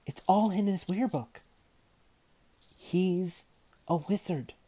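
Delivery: high, loud, despairing insistence; a touch of bleak despair. A narrator's reading. Girl insisting her nephew is a wizard, bleak. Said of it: "she repeated bleakly".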